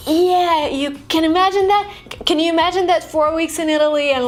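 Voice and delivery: high-pitched, gushing reply; excited bragging. Acted. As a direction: gush proudly about the coming trip. Acting out bragging about a trip.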